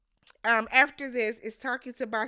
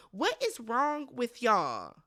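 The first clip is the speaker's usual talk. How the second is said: drawn-out, weary "What is wrong with y'all?"; slow, tired disbelief; slow exasperated question; slower than usual. Real, not acted. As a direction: ask it slowly, fed up. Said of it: "pissed me smooth the fuck off".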